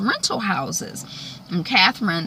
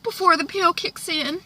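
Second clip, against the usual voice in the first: coaxing; 5 dB louder than usual. Retold or imitated. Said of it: "Catherine is like".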